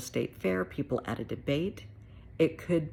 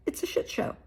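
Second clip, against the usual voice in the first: whispered aside. Real, not acted. Vlogger whispers her verdict on the debates, a hushed aside. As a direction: drop to a whisper for the swear.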